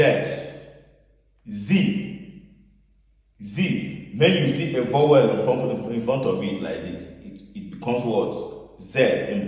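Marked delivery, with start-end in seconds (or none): 1.5-4.1 "Z" repeated as zee, with a buzzed start; German pronunciation. Shown as a demonstration. Teacher repeating the German pronoun for learners, Z-sound pronunciation. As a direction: say "Z" with the S voiced like English Z. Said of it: "S is pronounced as Z".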